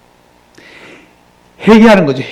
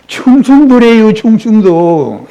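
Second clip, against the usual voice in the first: drawn out with a laugh in the voice; amused reveal; 4 semitones higher, 3 dB louder, slower than usual. Real, not acted. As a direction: stretch the province name, laughing. Joking about Chungcheong province. (웃음 섞인 말투)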